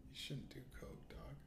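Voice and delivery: hushed, half-voiced warning; whisper. Real, not acted. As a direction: drop to a whisper. Whispered aside.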